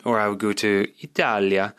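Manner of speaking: lightly Italian-accented country name; put-on Italian accent. Shown as a demonstration. Naming where he would go, Italian accent. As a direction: give the country its Italian sound. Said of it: "I'm sorry for the accent".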